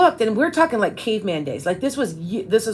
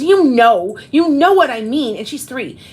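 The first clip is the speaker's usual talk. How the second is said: mildly imitating an annoyed toddler; 4 semitones higher, 3 dB louder, slower than usual. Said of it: "she got mad at me".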